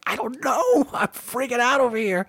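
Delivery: nervous freak-out. Retold or imitated. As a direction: act like you're losing it from nerves. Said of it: "I got so nervous".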